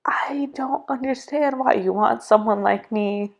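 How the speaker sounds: hushed and vulnerable, as if in tears; retold tearful prayer. Retelling her tearful prayer to God, hushed. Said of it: "just literally just in tears".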